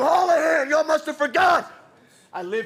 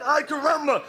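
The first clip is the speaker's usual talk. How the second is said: Ay caramba in a light mock Bart cartoon voice, a bit higher; cartoon catchphrase; 3 semitones higher than usual. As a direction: toss off the Simpsons catchphrase, hammed-up. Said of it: "You wanna hear a Simpsons line?".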